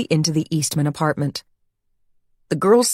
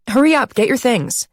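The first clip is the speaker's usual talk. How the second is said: raised, pressing hurry; urgent hurry; 7 semitones higher than usual. Acted. Jenny hurrying Aubrey off the train, urgent. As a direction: push her friend to move.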